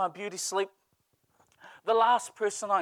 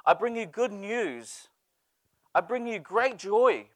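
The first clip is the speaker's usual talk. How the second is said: angel's announcement; slower than usual. Acted. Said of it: "the angel said".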